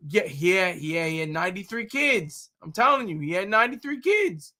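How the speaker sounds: lightly mocked, insistent gossip; joking impression of someone making wild claims; a singer. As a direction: insist on it with mock conviction. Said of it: "the singer would say".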